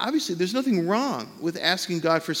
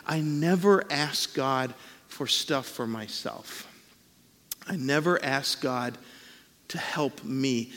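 slow, soft earnest admission; a hint of a self-denying believer; humble confession; 4 semitones lower, 5 dB quieter, slower than usual. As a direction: say it humbly, almost ashamed. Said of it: "folks who genuinely have said to me".

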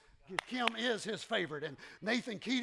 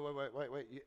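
ordinary talk, nothing marked

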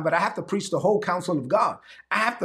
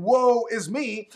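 slow, drawn-out woeful sigh; mock lament; 3 semitones higher, much slower than usual. Shown as a demonstration. Preacher mocking the self-pitying believer, slow mock lament. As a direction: drag it out like self-pity. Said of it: "So instead of saying".

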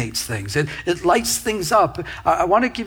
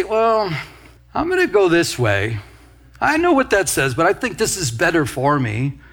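self-willed objection. Acted. Believer choosing own way over God's, mock self-willed objection.

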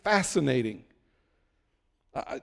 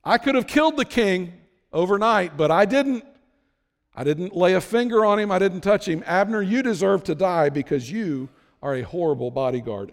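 taunting shout. Acted. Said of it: "David shouts out".

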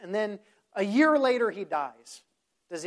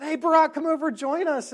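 raised voice, pitched up, calling a friend over; 10 semitones higher, 8 dB louder than usual. Retold or imitated. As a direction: call across a noisy room. Calling out across loud pizza place.

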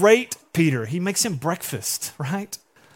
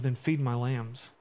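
soft, slow commission; 5 semitones lower, 8 dB quieter, slower than usual. Retold or imitated. Jesus gently commissions Peter.

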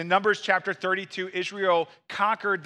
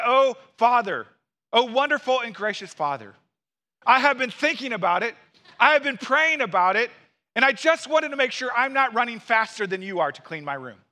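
mock pious child; 4 semitones higher, 3 dB louder than usual. Kids' pious excuse acted.

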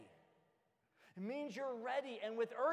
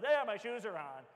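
put-on smug kid; 7 dB louder than usual. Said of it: "tippy toes".

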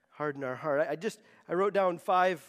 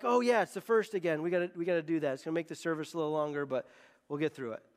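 unmoved; 5 semitones lower, faster than usual. Acted. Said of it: "our heart's completely unmoved".

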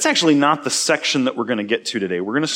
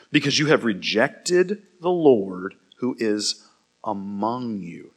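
steady, measured Bible reading; scripture reading. Acted. Pastor reading Numbers to his church, measured and clear. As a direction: read the passage to the congregation.

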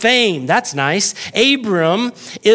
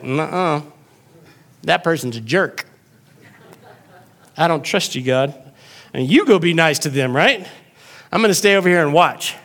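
mild sulky pout to God; sulky refusal. Retold or imitated. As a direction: refuse God like a stubborn kid. Congregant answering God sulkily.

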